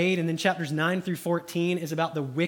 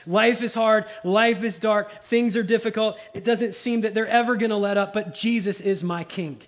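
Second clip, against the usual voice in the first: louder, higher, pleading cry; David's lament; 4 semitones higher, 5 dB louder than usual. Acted. David pouring out his heart, raised pleading voice. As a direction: cry it out like a weary king.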